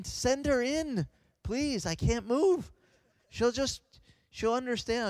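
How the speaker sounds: high, urgent inner plea; high-pitched mock desperation; pleading. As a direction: beg silently for help, retold. Helpless patient silently begging for wife.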